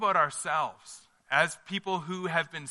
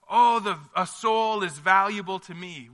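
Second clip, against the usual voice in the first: raised, loud tender declaration; God calling a soul precious, lifted up; God speaking of the soul's worth, high and loud; 3 semitones higher, 7 dB louder than usual. Acted. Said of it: "When we hear God go".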